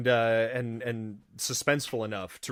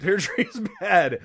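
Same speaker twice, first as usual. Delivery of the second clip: louder, higher mock warning through a laugh; hammed-up intense echo; more intense repeat; 5 semitones higher, 5 dB louder than usual. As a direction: echo the warning harder, amused. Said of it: "just a little bit more intensely".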